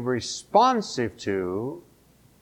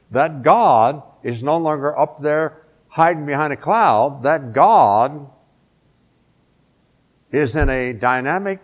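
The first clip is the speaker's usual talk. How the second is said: imagined proclamation; 2 semitones higher, 3 dB louder than usual. Retold or imitated. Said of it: "Wouldn't that be the logical place to go and say".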